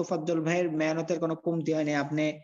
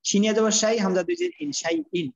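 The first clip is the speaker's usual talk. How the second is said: louder, climbing higher on each part; emphatic spelling demo; 3 semitones higher, 4 dB louder than usual. Shown as a demonstration. Teacher loudly demonstrates the spelling to the student. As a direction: call out each syllable as it builds higher. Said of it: "এই যেমন শাই".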